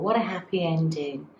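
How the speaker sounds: fast soft whisper. Real, not acted. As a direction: whisper it quickly. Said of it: "whispered aside after story".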